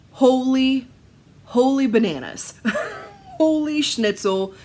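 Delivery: holy bananas, giddy and loud; excited exclamation. Real, not acted. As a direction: gush over the colours. Excited at the floss choices.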